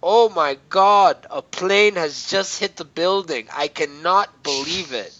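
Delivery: slow mock-dramatic line with a hint of an Arabic accent; Arabic-type voice. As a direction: imitate a dubbed Arabic-type voice, stretched out. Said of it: "like, a Arabic type voice".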